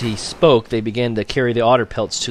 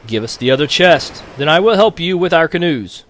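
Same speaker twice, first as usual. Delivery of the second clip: tag; 7 semitones higher, 5 dB louder than usual. A narrator's reading. Father bargains against the storm.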